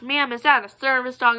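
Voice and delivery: mock nasty voice. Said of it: "in the nastiest voice possible".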